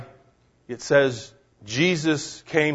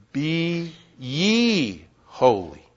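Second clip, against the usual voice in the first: quoting scripture; much slower than usual. Retold or imitated. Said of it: "Peter writes".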